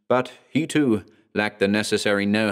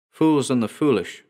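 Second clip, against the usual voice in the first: warning; 4 semitones higher than usual. Acted. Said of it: "New Forest warned".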